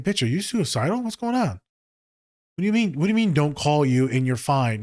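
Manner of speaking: high-pitched incredulous questioning; alarmed questioning. Retold or imitated. Questioning a client over an alarming text, incredulous. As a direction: pitch jumps up in mock alarm.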